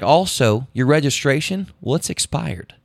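a hint of official cop voice; police officer. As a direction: play an officer at the car window, pausing after "sir". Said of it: "then he's like".

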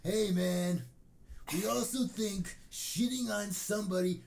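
loud, high, drawn-out mock shouting; all-caps internet rant. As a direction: read it like an angry commenter typing in capitals. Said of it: "responded in all caps as they would, as someone who was angry".

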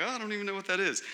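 a hint of an innocent child, softly; lightly voiced oblivious kid. Young kids puzzled by presents in the closet, lightly voiced innocence. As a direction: play a clueless kid, lightly.

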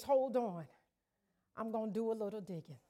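soft, fast, low-key voice of God; quiet aside. Acted. God quietly telling the weary he'll start digging. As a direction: say it quickly and softly, like a promise. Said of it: "he says".

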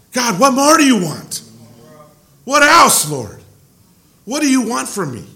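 frustrated prayer. Retold or imitated. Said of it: "In moments of frustration".

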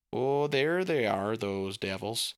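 bright, chatty dad coming home; lightly voiced jolly father; cheerful dad voice.

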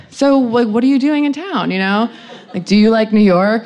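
stalling small talk. Retold or imitated. Drunk guest stalling with a stranger, mock-casual chat. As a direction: make mock small talk to buy time. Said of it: "I'm, like, trying to stall".

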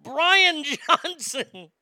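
stunned disbelief. Real, not acted. Stunned by upset result.

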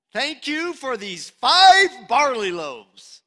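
loud, slow prayer of thanks, FIVE punched high; acted-out, swelling thank-you to God; emphatic thanks. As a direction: proclaim the gratitude, leaning hard on "five". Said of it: "And he said, "Thank you".

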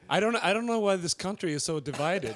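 attempted Southern accent, half laughing; tentative Southern accent through a laugh. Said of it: "can you do a Southern accent now?".

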